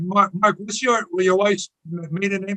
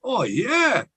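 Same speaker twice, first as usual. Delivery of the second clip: playful; 3 semitones higher than usual. Retold or imitated. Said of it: "I playfully said".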